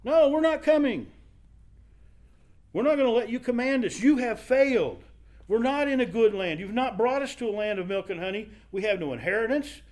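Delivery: accusing mob spokesman, heated and high; defiant rebels. Acted. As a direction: throw the refusal back at Moses. Rebels defying Moses, acted quote.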